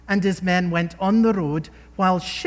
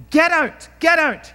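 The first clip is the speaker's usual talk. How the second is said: high, loud yelled curse; shouting curses; 9 semitones higher, 7 dB louder than usual. Retold or imitated. Shimei shouting curses down at King David, a high loud yell. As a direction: hurl it across the hillside. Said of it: "shouting from a distance".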